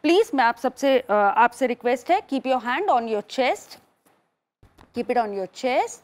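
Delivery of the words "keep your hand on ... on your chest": slow breathing-class instructions; guided breathing. Acted. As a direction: guide the inhale with drawn-out words.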